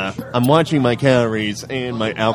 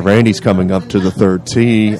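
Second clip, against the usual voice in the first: lightly voiced, lower-pitched golf commentary; a hint of hushed golf announcer, pitched down; golf commentator; 3 semitones lower than usual. Calling an eating contest like golf, mock commentator. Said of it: "trying to lower my voice".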